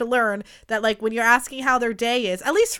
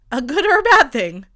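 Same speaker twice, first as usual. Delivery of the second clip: dramatic teaser; 5 semitones higher, 5 dB louder than usual. Acted. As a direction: drag it out like a suspense trailer. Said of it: "What a fun teaser".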